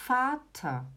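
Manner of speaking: "Vater" with the A held long, then a falling tone; teacher setting it against "Mutter". Shown as a demonstration. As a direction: lean on the A in "Vater". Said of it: "eu dou o tom mais no A".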